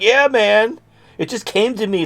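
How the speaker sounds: high-pitched, hammed-up eager reply; mock excited. Idea man to his amazed friend, mock excited. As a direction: answer like a giddy true believer.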